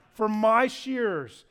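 my drawn out and punched; slow, loud weight on my; stress on my. Shown as a demonstration. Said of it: "this is a key word".

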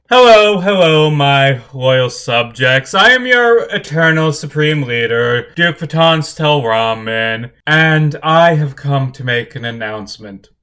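lounging hellish duke, grand and lazy; a hint of a pompous ruler; regal duke voice. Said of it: "And he's going to say".

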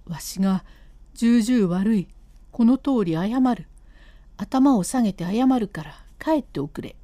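a guilty husband coaxing his wife to go home; husband's voice. Acted.

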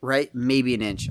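talking through hiccups; suppressing hiccups between words. Real, not acted. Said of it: "I'm sorry, I have the hiccups".

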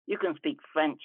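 ordinary delivery

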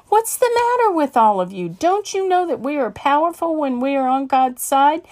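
high, loud righteous scolding; fiery preacher rebuking her deacons; indignant rebuke. Acted. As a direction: shame them for their fear. She rebukes fearful deacons.

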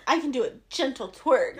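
steady, assured statement; confident. Shown as a demonstration. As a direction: say it like you mean it. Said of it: "say it with confidence".

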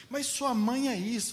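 xingamento de mentira, agudo, alto e arrastado; provocação encenada. Acted. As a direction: imitar alguém provocando, voz mais alta e esticada. Motorista provocador xinga a mãe. (provocação fingida em voz aguda)

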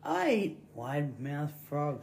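slow, low, soft snake voice; joke snake. Acted. Snake telling the frog what it eats, slow and low. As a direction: draw it out quietly as a menacing snake. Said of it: "He goes".

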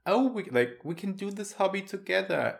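quoting Serena. Retold or imitated. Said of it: "texted us today and was like".

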